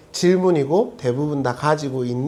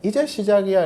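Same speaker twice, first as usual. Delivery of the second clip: blunt T-style; 3 semitones higher than usual. Retold or imitated. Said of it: "하나님 지금 아주 T처럼 말하는 거죠".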